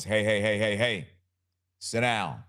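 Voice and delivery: lightly voiced stern dad; a hint of a dad calling the kids to order; a touch of a father telling a child to sit down. Shown as a demonstration. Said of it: "if I'm in my father voice".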